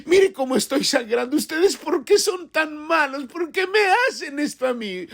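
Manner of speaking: hammed-up tearful kid accusing his parents; whiny crying child. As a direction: play the scraped child wailing at his parents. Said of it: "se sienta en el sofá llorando y dice".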